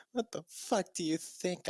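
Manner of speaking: hammed-up indignant retort; mock angry. Ebony snapping at Bloody Mary, mock angry. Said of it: "I asked angrily".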